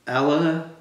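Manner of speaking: ordinary delivery, nothing marked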